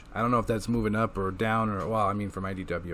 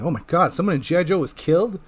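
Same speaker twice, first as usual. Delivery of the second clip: higher, fast mock gasp of shock; 5 semitones higher, 3 dB louder, faster than usual. Reader reacting to the death, hammed-up higher shock. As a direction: sound scandalized. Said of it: "I'm like".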